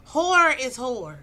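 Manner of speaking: Whore said slowly and loudly, with a full r in both; spelled out properly. Shown as a demonstration. Correcting slang to viewers, slow and loud Whore. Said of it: "'cause y'all say hoe".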